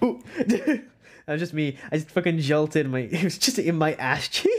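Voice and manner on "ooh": cramp yelp. Acted. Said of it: "you're just like".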